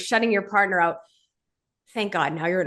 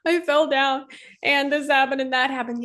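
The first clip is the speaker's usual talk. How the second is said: little daughter; 6 semitones higher than usual. Pretend. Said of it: "If your daughter came to you and said".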